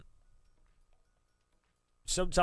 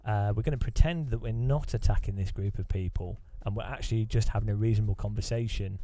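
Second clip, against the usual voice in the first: mock podcast bro; 2 semitones lower than usual. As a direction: parody the hype host selling junk. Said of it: "I need to talk like this".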